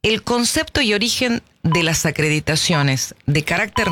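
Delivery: slow, deliberate reading with pauses between phrases; measured, careful pace for clarity. Shown as a demonstration. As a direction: spell it out slowly, phrase by phrase. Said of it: "lo digo más despacio".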